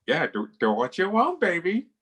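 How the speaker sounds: high, rising, whiny phone-sex croon; mock a squeaky comedian purring into a phone; Gilbert Gottfried impression. Friend mocks Wendy's stranger's phone sex, squeaky Gottfried croon. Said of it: "he sounded exactly like Gilbert Godfrey".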